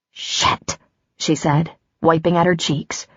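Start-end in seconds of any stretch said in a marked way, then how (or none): 0.1-0.8 muttered curse. Acted. Caught crying, cursing softly.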